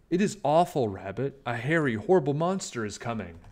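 a mouse breathlessly passing on bad news; frightened Mouse. Mouse tells Rabbit, frightened.

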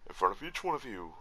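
a light, half-committed voice impression; tentative go at mimicking someone's voice; Mick. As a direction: try a little character voice, rising then dropping mid-phrase. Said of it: "doing my best little Mick voice".

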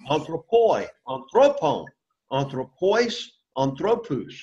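Anthropoi, anthropon, anthropois, anthropous, each with its accented syllable punched; teacher stressing the accented syllable of each form, anthropoi to anthropous; shifting accent stress. Shown as a demonstration. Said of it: "hear me emphasize where the accent was".

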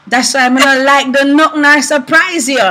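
husband's line in Jamaican patois; Jamaican accent. Retold or imitated. Husband annoyed his car surprise failed, Jamaican accent. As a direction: quote him in a light Jamaican accent. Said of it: "In, in Jamaican, he says".

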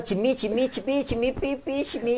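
high-pitched, repeated little syllables; chirpy repeated demo. Shown as a demonstration. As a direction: demonstrate the catchword in a high voice. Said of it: "อย่างนี้ไง". (สาธิตคำซ้ำๆ ด้วยเสียงสูง)

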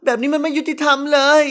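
voiced young woman's protest; protesting girl. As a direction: object like an indignant daughter. Girl protests over unfairness, acted.

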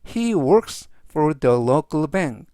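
very slow, spaced model sentence. Shown as a demonstration. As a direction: read it very slowly for learners to follow. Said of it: "즉 전체적 의미는".

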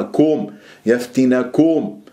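كم darkened and rounded to كوم; wrongly heavy kum. Shown as a demonstration. Teacher shows the ending to avoid, heavy rounded كوم. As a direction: thicken the ending of يفتنكم into كوم. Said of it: "ما تفخمها".

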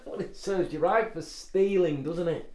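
a laughing dad gloating over his prank; teasing laugh. Acted. Dad teasing daughter after joke.

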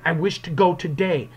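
firm, insistent interjection; stern interruption. Acted. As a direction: cut in sternly. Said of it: "this is very stern, the way he's, Rainsford says it".

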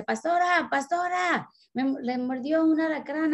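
high, urgent calling out of a name. Retold or imitated. Woman waking Pastora after a scorpion sting, alarmed and high. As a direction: wake her up in alarm at night. Girl wakes her at night.

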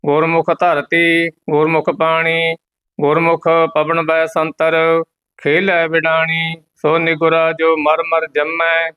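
measured, monotone Gurbani chant; level devotional reading; scripture recitation. Acted. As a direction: recite line by line on one steady note, held endings.

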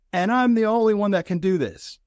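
mock despairing high plea; plaintive high cry. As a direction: voice jumps high in frustrated complaint. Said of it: "I say something to this whole group".

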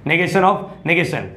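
very slow, each word of "Negation of negation" spaced out for memorising; slow drilling repeat. Shown as a demonstration. Teacher drilling his class on the rule, very slow. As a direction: spell out "Negation of negation" slowly so students remember. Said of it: "ये तीन statement याद रखना".

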